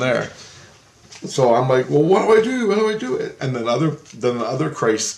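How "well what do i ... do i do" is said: much higher urgent asking; anxious. Retold or imitated. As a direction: plead for instructions.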